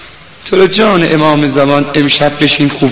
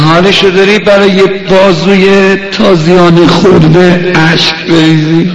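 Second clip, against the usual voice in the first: impassioned mourning appeal; 4 dB louder than usual. Real, not acted. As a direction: urge mourners towards tears. Preacher's emotional appeal before lament.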